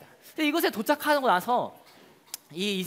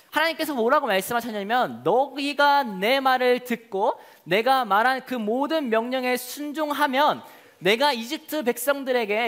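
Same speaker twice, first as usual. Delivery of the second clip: ordinary talk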